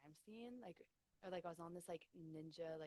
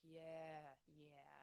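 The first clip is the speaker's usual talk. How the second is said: drawn-out Long Island. Retold or imitated. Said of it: "They're like".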